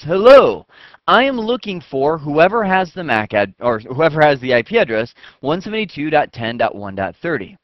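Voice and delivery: a booming hello, then calling out to the whole network; loud calling out. Pretend. Computer loudly calling out to everyone on the network. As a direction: shout it out like a broadcast to everyone. Computer broadcasts an arp call.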